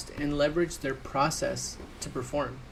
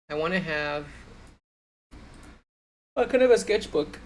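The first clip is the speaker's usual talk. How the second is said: yawning; 4 dB louder than usual. Real, not acted. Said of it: "Sorry, I'm yawning".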